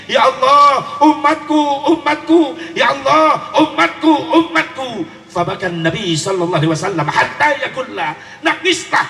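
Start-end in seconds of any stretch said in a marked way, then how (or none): 0.1-5.0 pleading cry. Acted. Preacher voices pleading prophet.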